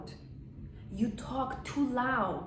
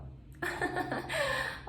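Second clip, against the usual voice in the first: soft, high little laugh; light, contained demo laugh; subtle laugh; 4 dB quieter than usual. Shown as a demonstration. Elegant wife of a wealthy man, subtle laugh. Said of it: "Their laughter is very subtle".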